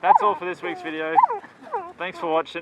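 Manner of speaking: high, loud outro over wind; shouting over wind. Real, not acted. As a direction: yell the sign-off into the gale. Outro in strong wind, high pitched.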